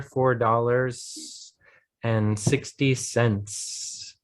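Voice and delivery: "dollars" and "cents" said slowly with the final s clearly sounded; plural endings sounded. Shown as a demonstration. Teacher confirming the student said the S, slow, with plural endings sounded. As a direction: draw out "four dollars and sixty cents", sounding each plural s. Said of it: "You said the S there".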